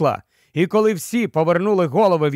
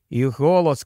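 plain reading voice

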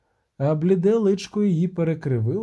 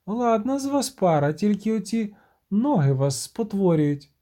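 a sea siren toying with the witcher; mocking siren; 6 semitones higher than usual. The siren mocks the witcher, high and teasing.

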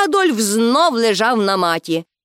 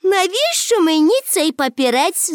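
higher, dismissive question; scornful; 7 semitones higher than usual. A narrator's reading. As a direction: brush the money off with disdain. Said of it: "зневажливо мовила Пепі".

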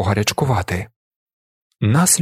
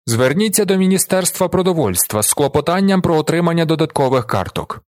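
lightly creaky official; 6 semitones higher than usual. A narrator's reading. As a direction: recite it as a creaky-voiced gendarme. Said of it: "скрипучим голосом говорить жандарм". (злегка скрипучим голосом)

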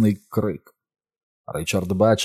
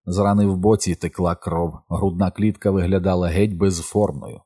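plain reading voice

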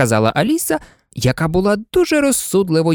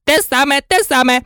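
shouting; 9 semitones higher than usual. A narrator's reading. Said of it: "закричав близняк".

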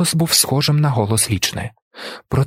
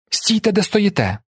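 shouted command; 9 semitones higher than usual. A narrator's reading. Face dancer orders everyone to stand still, high sharp call. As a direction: call the whole room to freeze. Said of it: "гукнув Скетелі".

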